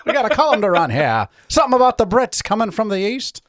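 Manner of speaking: put-on high, laughing old-timey newsman voice; Ben Franklin impression. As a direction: ham up a colonial editor calling in his reporter. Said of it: "Ben Franklin and J R".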